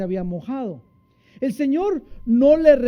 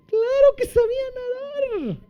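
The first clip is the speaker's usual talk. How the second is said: emphatic retort. Acted. Emphatic rhetorical answer.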